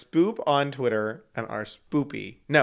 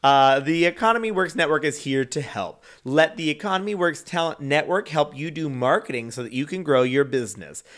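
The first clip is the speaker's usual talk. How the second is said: ad read; 3 dB louder than usual. Acted. Reads a radio ad.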